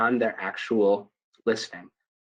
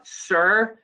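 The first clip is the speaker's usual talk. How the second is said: escalating interruption; 9 semitones higher, slower than usual. Retold or imitated. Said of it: "they start getting a little bit like".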